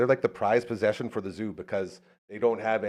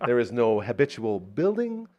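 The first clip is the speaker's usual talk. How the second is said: lightly imitated nature-documentary narrator, higher than usual; David Attenborough narration; 4 semitones higher than usual. Imagining the narrator of a friend's boring life, mock documentary voice. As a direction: narrate it like a wildlife film, without a real British accent. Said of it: "I can't do the British accent".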